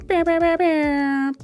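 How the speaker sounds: slow, high, loud vocal air horn blasts; air horn imitation. Shown as a demonstration. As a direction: belt out a DJ horn with your voice. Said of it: "my little D J air horn".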